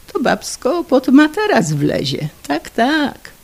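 loud, high tipsy boasting; husband bragging to friends about his wife, loud and high; drunken bragging. Acted. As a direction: brag to your drinking friends, puffed up.

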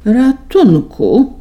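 slow, high, loud cry for help; yelled. A narrator's reading. Boy fleeing the barn, shouting slowly for help. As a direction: bellow it out in panic. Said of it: "ryknął Bartuś".

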